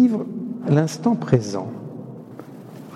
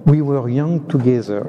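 slow English line with a French accent. Shown as a demonstration. Priest quoting a book title in English, French accent. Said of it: "pardonnez-moi mon accent anglais".

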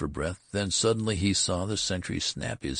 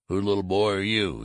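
kindly demand; 4 semitones higher, 4 dB louder than usual. A narrator's reading. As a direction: kindly question to a child, a bit higher. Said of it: "he demanded kindly".

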